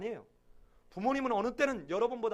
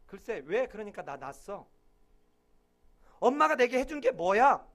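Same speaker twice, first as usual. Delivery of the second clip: imitating a defiant child; 6 dB louder than usual. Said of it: "이런 말 안 하겠지만".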